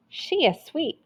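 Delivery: delighted gasp. Acted. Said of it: "gasped the woman".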